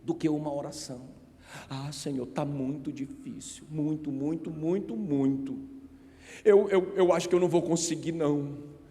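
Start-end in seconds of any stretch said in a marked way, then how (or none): 1.7-8.8 whining. Retold or imitated. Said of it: "mais um choramingo".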